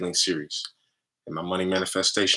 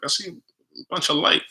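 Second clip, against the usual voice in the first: put-on excited girlfriend; 9 semitones higher than usual. Girlfriend freaking out.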